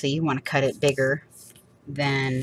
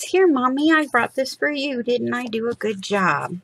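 put-on higher, childlike voice of the eager dog; dog's proud voice; 8 semitones higher than usual. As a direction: play the proud puppy showing off.

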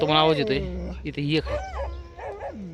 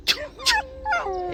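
drawn-out shoo; 4 dB quieter, much slower than usual. Real, not acted. Long drawn shoo at dogs.

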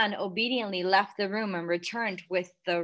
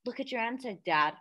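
gently; 3 semitones higher than usual. Acted. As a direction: coax him gently. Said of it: "Matilda said gently".

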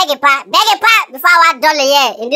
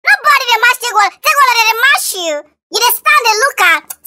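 higher, excited hype man taunt; hyped taunting; 6 semitones higher than usual. Acted. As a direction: pump up your champion and mock the rival. Taunting rival, hyping champion.

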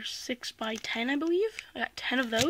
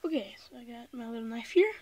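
out of breath; faster than usual. Real, not acted. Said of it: "Sorry if I'm kind of out of breath".

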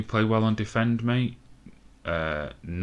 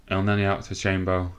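breathless after the excitement; words pushed out between breaths. Real, not acted. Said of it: "I'm actually out of breath".

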